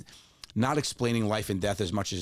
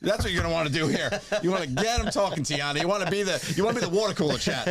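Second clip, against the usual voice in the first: laughing tease; 9 semitones higher than usual. Real, not acted. Joking advice while laughing.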